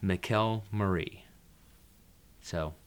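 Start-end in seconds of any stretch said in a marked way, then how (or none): 0.0-1.2 McElmurray sounded out slowly, part by part. Shown as a demonstration. Reader showing how the illustrator's name was worked out, sounded out. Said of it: "sounded it out".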